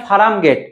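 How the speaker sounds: ফার্ম গেট as "faram get", extra vowel in farm; altered casual pronunciation. Shown as a demonstration. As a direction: slip a vowel into ফার্ম, fa-ram. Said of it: "দ্রুত উচ্চারণের জন্য".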